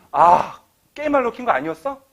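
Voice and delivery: loud, high, fast accusation; suspicious parent. Acted. Parent accuses the child of gaming, loudly. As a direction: accuse the kid sharply.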